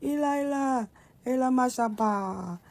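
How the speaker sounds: high, anguished cry of Eli Eli; Jesus crying out to God from the cross, anguished; loud cry. Acted. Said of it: "he cried out with a loud voice".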